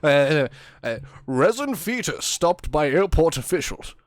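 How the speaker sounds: clumsy mock newsreader delivery; news anchor voice. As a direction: read it like a TV anchor. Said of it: "do the first paragraph in a news anchor voice".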